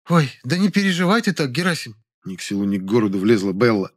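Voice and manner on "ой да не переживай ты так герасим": high, light woman's voice; consoling woman. A narrator's reading. Neighbour tells rejected man not to worry, consoling. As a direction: soothe him in a raised, unforced voice.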